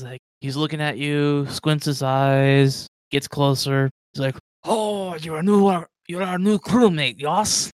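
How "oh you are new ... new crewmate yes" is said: loud, hearty orc greeting; booming orc welcome; big friendly orc. Acted. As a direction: boom it out like a jolly orc. Orc greets new crewmate loudly.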